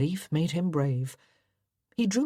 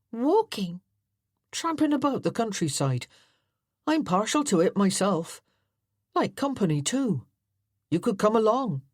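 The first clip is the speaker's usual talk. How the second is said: lightly voiced friendly country boy; an easygoing rustic lad, inviting; Tom, country lad; 5 semitones higher than usual. Tom's rustic voice in story.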